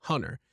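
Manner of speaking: HONOR said with an audible H; sounded H. Retold or imitated. Teacher showing what confuses people, HONOR with sounded H. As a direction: mimic the slip, breathing an H onto "honor". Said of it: "you would probably confuse people".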